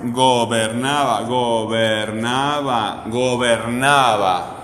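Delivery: "gobernaba" repeated very slowly, each NA drawn out; stress on NA. Shown as a demonstration. Teacher checking for the tonic syllable, stress on NA in "gobernaba". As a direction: stretch "gobernaba" and lean on NA every time. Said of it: "no estaba la sílaba tónica".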